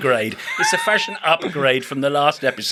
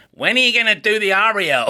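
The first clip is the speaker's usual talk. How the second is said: made-up listener voice; 4 semitones higher than usual. Retold or imitated. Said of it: "that's the voice I'm using".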